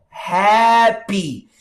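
"Happy" stretched slowly and clearly; slow, deliberate "Happy" for learners; drawn-out demonstration. Shown as a demonstration. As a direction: say "Happy" long, as if in one mouth movement. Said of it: "preste atenção, ó".

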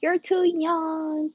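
lightly voiced playful coworker; flirty coworker. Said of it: "he's like".

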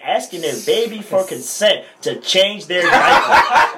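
reading through rising laughter; words breaking into a laugh; half laughing at the absurd line; laughing while reading. Real, not acted.

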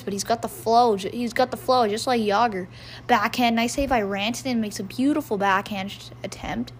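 steady hockey play-by-play; live play-by-play. Acted. Fan calling the game to viewers, play-by-play. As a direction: call it like the broadcast.

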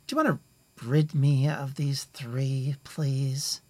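high, sly, coaxing order to the hired muscle; sweet on top, cold underneath; elf lady commanding. Acted. Elf lady asking the orcs to dispatch intruders, sly and high. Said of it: "she looks at the orcs and says".

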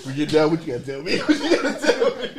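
mock panic, laughing between words; startled, amused protest; laughing alarm. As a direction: stammer hey hey while cracking up. Reacting to kneeling girlfriend.

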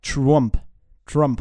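"Trump" in mock American English; imitated American woman. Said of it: "eine Amerikanerin hat gesagt". („Trump“ amerikanisch nachgesprochen)

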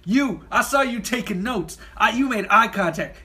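lightly voiced Bronx boss; punchy pitch with a hint of Bronx; Bronx accent. Branch head praising his new hire, in a light Bronx accent. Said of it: "from the Bronx or something".

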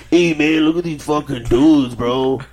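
loud yokel calling out; lightly drawled hillbilly exclamation. Retold or imitated. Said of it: "your fucking hillbilly voice".

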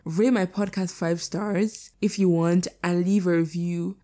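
hoarse, worn-out voice; croaky like a tired horse. Real, not acted. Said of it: "I still sound like a fucking dying horse".

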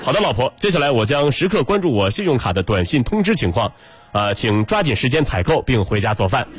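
formal anchor wrap-up; news anchor voice. Shown as a demonstration. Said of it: "用播音腔说话". (播音腔)

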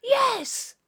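high, loud exclaimed yes; emphatic yes. Retold or imitated. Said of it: "And she's like".

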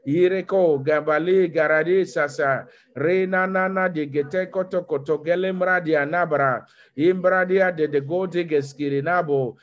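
rapid rhythmic glossolalia; speaking in tongues. Acted. Pastor praying in tongues before the church, fervent. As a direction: pour out syllables in prayerful flow.

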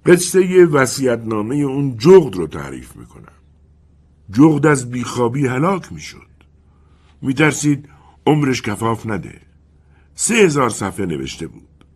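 the wind as an old storyteller, lightly played; wind character voice. The wind admits it forgot the story, lightly voiced.

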